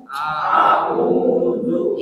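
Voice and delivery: A'udzu breathed without voice; whispered. Shown as a demonstration. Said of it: "Coba dibaca".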